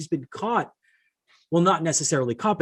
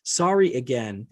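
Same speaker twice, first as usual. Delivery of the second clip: slow, half-hearted sorry read back; mock half-hearted apology; slower than usual. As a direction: read the apology out slowly, unconvinced. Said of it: "such a half-hearted apology".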